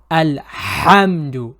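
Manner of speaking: Alhamdu with breathy Ha from the middle of the throat; throaty Ha. Shown as a demonstration. Teacher slowly demonstrating Ha in Alhamdu. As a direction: push the Ha of Alhamdu from mid-throat. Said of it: "feeling those vibrations in the middle of your throat".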